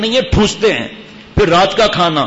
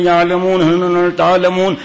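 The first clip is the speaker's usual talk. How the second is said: mocking rushed recitation; much slower than usual. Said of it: "اور speed".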